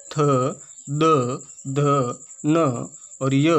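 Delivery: थ द ध न spaced out one by one; dental letters recited. Shown as a demonstration. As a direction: sound out each dental letter for the class. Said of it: "त वर्ग के अंदर आता है". (दंत्य वर्ण एक-एक करके)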